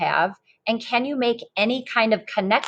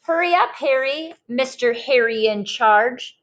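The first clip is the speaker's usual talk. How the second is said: a hint of a chipper old man, higher on hurry up; lightly voiced George, hurrying the boy along; cheery old man calling; 3 semitones higher than usual. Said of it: "He always calls".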